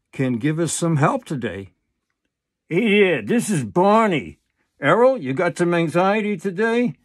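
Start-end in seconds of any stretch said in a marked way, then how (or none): 2.7-7.0 brighter, chirpy puppet character. Acted. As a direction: play the cheerful puppet friend. Puppet Barney voice.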